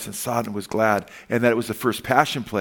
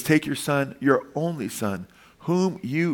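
"whom you love" drawn out very slowly, pitch rising; slow down hard on "whom you love"; slow emphatic quote; 3 semitones higher, slower than usual. Shown as a demonstration. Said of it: "And he says".

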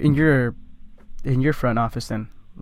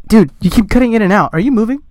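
calling out; 8 semitones higher, 9 dB louder, faster than usual. Real, not acted. Friend calling out over bad connection.

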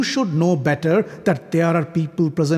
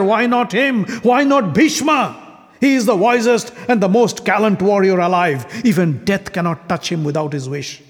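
angry accusation; 3 semitones higher than usual. Acted. Shishupala's angry tirade in the assembly.

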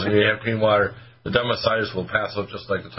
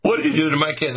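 parent asking; 4 semitones higher than usual. Retold or imitated. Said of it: "and they say".

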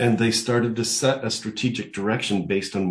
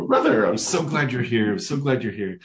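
eager brother; 4 semitones higher than usual. Retold or imitated. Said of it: "It was like".

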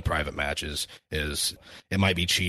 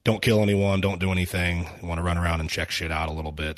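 calling out; 4 dB louder than usual. Retold or imitated. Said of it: "it's, you know".

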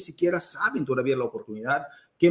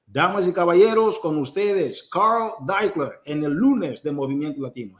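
lucha libre announcer; 4 semitones higher than usual. Acted.

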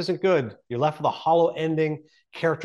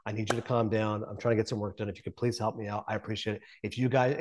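softer, calm parent voice; 4 semitones lower, 5 dB quieter than usual. Retold or imitated. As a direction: gently ask the kids to settle, softly. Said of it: "come back and calmly go".

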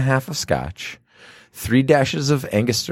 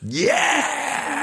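laughing shout. Real, not acted. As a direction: burst out laughing on it. Laughing at his story.

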